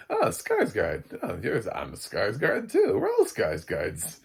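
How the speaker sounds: loud, animated mock neighbours; mock excited greeting. Neighbours meeting on a walk around, mock excited. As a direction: play locals delighted to share a name, voice jumping up.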